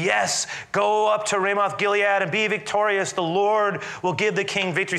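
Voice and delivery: high, eager prophet's cry; frenzied agreement. Acted. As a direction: chant victory like a worked-up crowd of prophets. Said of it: "this kind of frenzied environment".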